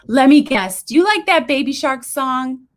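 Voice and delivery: put-on high, bright-toned coaxing of a child; cheery voice to kids. A narrator's reading. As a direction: coax the toddler cheerfully. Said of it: "booming, cheery voice".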